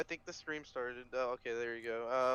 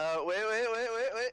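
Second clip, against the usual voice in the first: rising, louder wait wait wait; urgent wait; 9 semitones higher, 5 dB louder than usual. Real, not acted. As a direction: stop them in a hurry. Stopping the intro.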